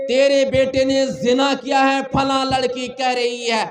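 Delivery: loud, pressing accusation; scolding. Acted. Villagers scolding a boy's parents over the charge, loud scolding. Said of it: "ڈانٹا جاتا ہے".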